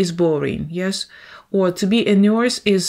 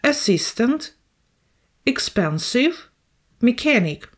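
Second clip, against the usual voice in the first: assistant, expensive, mechanic each stressed on the middle syllable, words set apart by pauses; teacher modelling second-syllable stress; 4 semitones higher than usual. Shown as a demonstration. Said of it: "The second syllable is under the stress".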